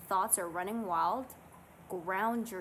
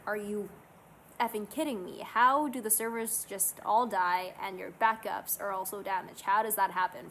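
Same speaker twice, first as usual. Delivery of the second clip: mock frustration; 4 dB louder than usual.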